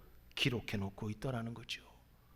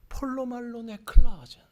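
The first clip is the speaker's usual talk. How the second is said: 폴로 말론 에클라젠 said louder and higher, stress on 폴로; louder Greek phrase; 7 semitones higher, 8 dB louder than usual. Shown as a demonstration. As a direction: repeat 폴로 말론 에클라젠 stronger, falling at the end. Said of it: "더 큰 소리로". (더 크게 폴로 말론 에클라젠)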